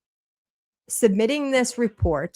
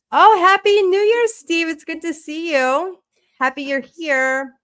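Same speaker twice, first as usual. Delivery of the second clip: excited welcome, easing down at the end; gushing greeting; 10 semitones higher, 6 dB louder than usual. Real, not acted. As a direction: greet them with a big high-pitched burst. Gushing greeting to an arriving viewer.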